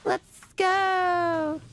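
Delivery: slow, drawn-out mock-heroic cry; heroic rallying call. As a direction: stretch it like a playful battle call. Playful heroic announcement in stream.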